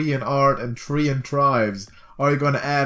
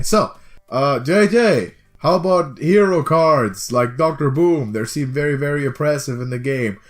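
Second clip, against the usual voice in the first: put-on disgruntled British accent; grumpy Brit asking questions. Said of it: "I wanna sound like a disgruntled Brit".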